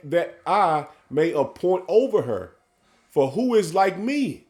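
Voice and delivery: measured, drawn-out scripture reading; solemn sermon reading; slow preaching scripture read. Acted. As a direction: lay each phrase out slowly like a preacher.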